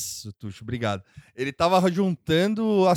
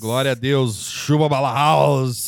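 mock biblical prophet; 3 semitones lower, slower than usual. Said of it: "um tom profético".

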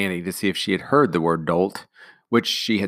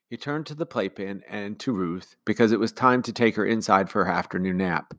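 usual speaking voice

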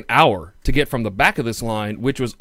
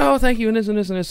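put-on girlfriend voice; 9 semitones higher, faster than usual.

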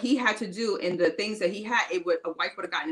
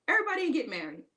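high, breathy laughing aside; half-whispered with a laugh, amused; 9 semitones higher, faster than usual. Shown as a demonstration. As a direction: whisper it through a giggle. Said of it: "I meant to say that earlier".

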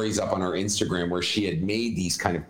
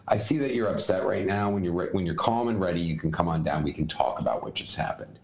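simple calm; 2 semitones lower, faster than usual. Shown as a demonstration. Parent to an upset child sent to his room, calm. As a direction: say it evenly, settling down without emotion. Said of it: "and just simple calm".

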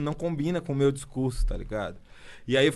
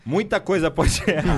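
laughing; 3 semitones higher, 6 dB louder than usual. Real, not acted. Laughing mid-claim.

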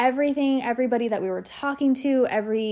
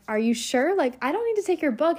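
higher, quicker incredulous question to the woman; retold disbelief; 5 semitones higher than usual. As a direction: replay your stunned surprise at the gift. Retold disbelief at gift of book.

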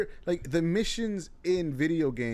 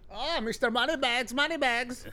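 mocking; 9 semitones higher than usual. Real, not acted. Teasing friend about wealth.

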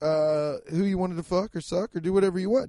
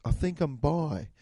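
Imitation of a famous singer; 3 semitones lower, 4 dB quieter than usual. Retold or imitated. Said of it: "I like doing this voice".

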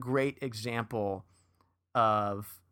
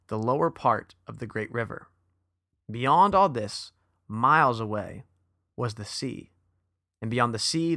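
story read-aloud. Acted. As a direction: read it out phrase by phrase, unhurried. Let me actually read. Let's read.

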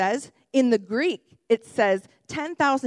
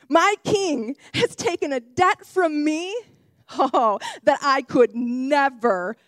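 joyful servant. Acted. Servant voiced rejoicing in forgiveness.

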